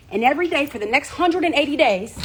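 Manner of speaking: winded mid-sentence; breathless after preaching hard; out of breath. Real, not acted. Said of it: "I'm getting out of breath".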